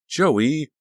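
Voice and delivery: high, loud protest, rising; exasperated shout. A narrator's reading. Danielle objects as the van speeds up, exasperated. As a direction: cry out the name in protest.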